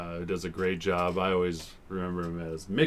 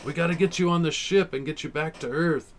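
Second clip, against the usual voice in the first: high mock officer voice; 10 semitones higher, 3 dB louder than usual. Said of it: "they come back and they're like".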